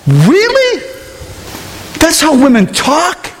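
high, slow incredulous question; retold astonishment. Preacher reliving surprise at women in the lunchroom, high astonished questioning. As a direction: stretch it out in acted disbelief.

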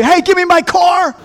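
high, urgent call for the car; mock call out. Preacher acting out calling after a car thief, high call.

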